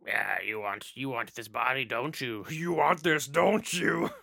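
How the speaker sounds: sultry, teasing, rising to a laughing tease; seductive demon voice. Retold or imitated. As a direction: tempt him like a possessed demon. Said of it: "she's all like".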